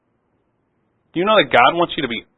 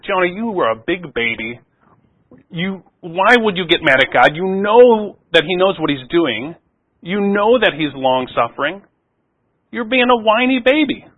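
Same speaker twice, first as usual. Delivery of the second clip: mock scolding, climbing higher to the end; scolding Jonah; 5 semitones higher than usual. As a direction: chide him like a big baby. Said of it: "want to criticize Jonah and say".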